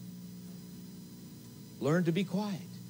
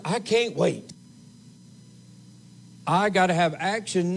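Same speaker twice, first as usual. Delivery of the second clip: impatient people; 4 semitones higher, 5 dB louder than usual. Retold or imitated. Preacher voices impatient Israel.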